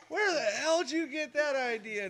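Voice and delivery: high, mock-stern mother; mock scolding mom. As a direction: play the outraged mom lightly.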